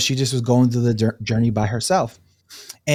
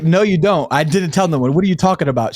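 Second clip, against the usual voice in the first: higher, louder incredulous protest; retold disbelief; 5 semitones higher, 4 dB louder than usual. Friend challenges the other who knows her secret, incredulous.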